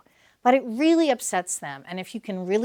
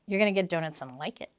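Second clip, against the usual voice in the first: bossy dad; 2 semitones lower, 7 dB quieter, faster than usual. Shown as a demonstration. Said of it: "he doesn't say".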